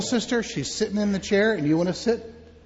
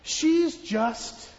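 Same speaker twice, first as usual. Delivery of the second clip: higher, calm Jesus; lightly voiced Jesus; 6 semitones higher than usual. Jesus telling the mourners she only sleeps, light voice. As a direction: reassure them gently.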